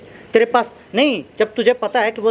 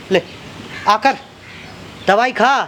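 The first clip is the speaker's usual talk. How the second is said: forceful order; 2 semitones higher than usual. Acted. Man ordering a woman to take medicine, forceful. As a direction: push the order hard.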